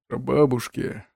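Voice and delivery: put-on slow, thoughtful old man. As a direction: muse on it like an old ghost. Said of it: "задумчиво повторил старик".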